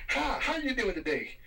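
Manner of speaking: high, slow sing-song hello; walk in beaming at everyone; cheery greeting. Retold or imitated. Worker greeting the office on Friday, high and slow.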